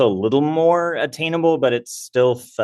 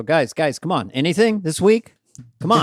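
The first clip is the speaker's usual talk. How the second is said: pleading; 6 semitones higher than usual. Retold or imitated. Writer begging colleagues for sketches.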